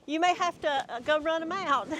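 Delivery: high laughing instruction. Real, not acted. Rehabber laughing as she tells her friend to chase the deer. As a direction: laugh through the words and up into a squeal.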